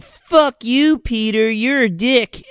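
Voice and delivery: high, punchy imitation of fury; mock angry retort. Retold quarrel, friend curses boyfriend.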